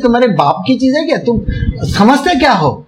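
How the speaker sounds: a hint of the angry saint shouting at thieves; mock scolding. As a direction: rattle off an indignant rebuke. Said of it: "gives enough galis to them and says".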